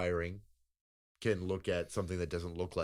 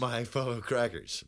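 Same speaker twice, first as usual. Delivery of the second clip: mock address; 3 semitones higher than usual. Mock sign-off address, slow.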